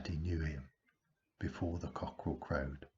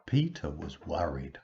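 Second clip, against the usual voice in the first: ordinary delivery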